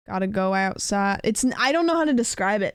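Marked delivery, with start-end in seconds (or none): 0.1-1.2 lightly done rural Oregon country accent; a slight country twang, not quite Southern; hint at a rural Oregon twang. Shown as a demonstration. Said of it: "country accent where they're like".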